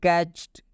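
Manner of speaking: कैच्ड ending in a T, "catcht". Shown as a demonstration. Teacher shows learners the correct reading, कैच्ड with a T ending. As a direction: say कैच्ड with ट for the final ड. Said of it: "ट होता है".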